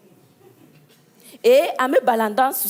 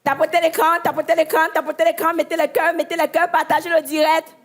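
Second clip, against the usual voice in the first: live-stream hype chant; influencer live-stream call; 4 semitones higher than usual. Retold or imitated. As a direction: coax viewers like a streamer. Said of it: "vous le connaissez".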